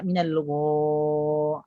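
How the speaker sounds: GHA held long with rounded lips. Shown as a demonstration. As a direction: pout on a slow gha. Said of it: "jangan dibulatkan". (gha panjang dengan bibir bulat)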